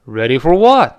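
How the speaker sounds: mildly puzzled, loud on the last word; confused comeback with a punched final word; baffled question. Acted. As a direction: toss it back, totally lost. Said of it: "莫名其妙，满头雾水".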